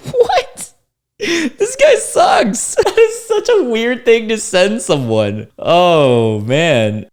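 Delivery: high squeaky laugh through the words; shocked laughter at a rude message; laughing disbelief. Real, not acted. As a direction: crack up in disbelief, pitch way up.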